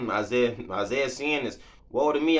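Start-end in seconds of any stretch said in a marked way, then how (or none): 1.9-2.4 loud, higher cry of woe. Acted. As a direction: wail it out in dismay. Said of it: "I cried".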